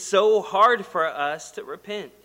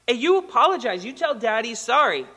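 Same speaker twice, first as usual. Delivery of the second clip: lightly acted stern dad, raised pitch; insistent scolding; 5 semitones higher, 4 dB louder than usual. Father to son who refused to apologize, insistent scolding. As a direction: press the demand on a stubborn child.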